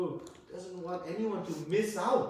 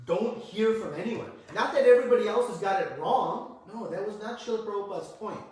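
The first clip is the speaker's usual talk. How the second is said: emphatic preaching; 5 semitones higher, 8 dB louder than usual. Real, not acted. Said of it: "preaching emphasis".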